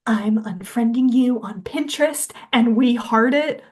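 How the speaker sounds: emphatic mock breakup declaration; hammed-up angry announcement; retold anger. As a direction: imitate an indignant girl cutting off her friends. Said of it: "like, really angry about it".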